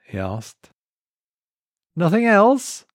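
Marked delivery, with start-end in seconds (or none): 2.0-2.9 tempting. Acted. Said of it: "tempting him".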